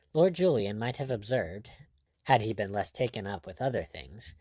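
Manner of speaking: ordinary delivery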